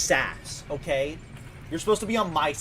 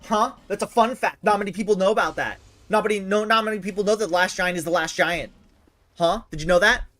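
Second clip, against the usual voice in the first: mocking taunt; 5 semitones higher, 3 dB louder than usual. Taunting Orgon.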